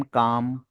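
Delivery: "काम" with no L sound before M; silent L. Shown as a demonstration. Teacher answering why letters are silent, "काम" without the L. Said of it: "यहाँ एल silent है".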